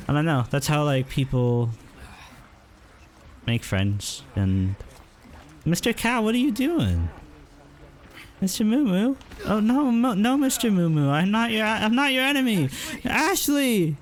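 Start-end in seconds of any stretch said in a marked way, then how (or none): 5.6-13.9 high-pitched frantic pleading with a cow; panicked squeaky pleas to an attacking cow. Real, not acted. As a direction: beg the cow to stop, voice up high. Pleading with hostile game cow.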